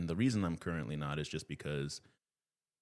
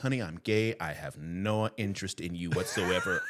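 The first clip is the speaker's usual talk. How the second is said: loud, emphatic mock exasperation; exasperated casting man; 3 semitones higher, 6 dB louder than usual. Casting man reassures offended woman, exasperated. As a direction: act out setting someone straight, pushing the volume.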